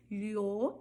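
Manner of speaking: LHO with a palatal "ly" sound; Y variant. Shown as a demonstration. Teacher listing regional variants, palatal "lho". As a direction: say lho as "lyo". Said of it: "eu posso falar".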